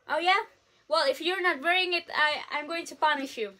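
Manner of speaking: lightly imitated scolding mother; stern mom. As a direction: threaten like a fed-up mom, lightly voiced. Mom voiced threatening punishment.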